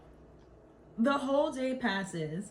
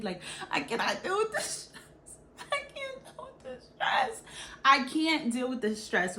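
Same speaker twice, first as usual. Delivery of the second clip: a little louder, rushed, mock distress; hammed-up outburst; 4 dB louder than usual. Kid ranting to her teacher in mock distress. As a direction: pile it on like a panicking kid. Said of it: "I did a whole outburst".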